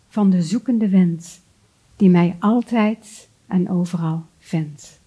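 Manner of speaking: slow, measured poetry reading with long pauses; unhurried, carefully articulated verse reading; poem recital. Acted. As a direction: recite it line by line, letting each phrase settle.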